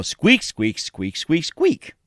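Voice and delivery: playful squeaking with a jump up on the last one; squirrel squeaks. Retold or imitated. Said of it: "they always go".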